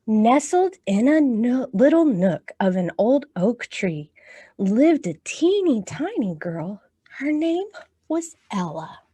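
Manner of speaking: storytime picture-book reading; reading to children. Acted.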